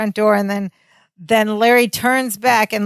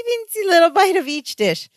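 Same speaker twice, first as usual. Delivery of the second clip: Larry voice; 10 semitones higher than usual. Retold or imitated. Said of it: "And Larry goes".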